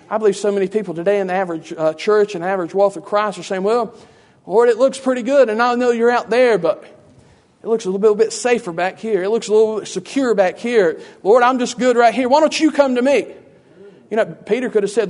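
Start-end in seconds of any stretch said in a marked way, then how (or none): 3.6-13.3 higher-pitched mock pleading; imitated comfortable believer begging off; reluctant excuse-making. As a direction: make excuses to the Lord, voice rising louder.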